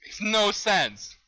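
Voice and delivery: loud, high, drawn-out complaint; real baffled exasperation; exasperated disbelief. Real, not acted. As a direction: stretch the words out, fed up. Baffled by the game.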